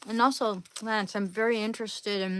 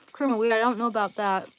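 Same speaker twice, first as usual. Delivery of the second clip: talking through a mouthful of popcorn; munching popcorn; 6 dB louder, faster than usual. Real, not acted. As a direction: say it while still chewing popcorn. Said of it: "I'm eating popcorn right now".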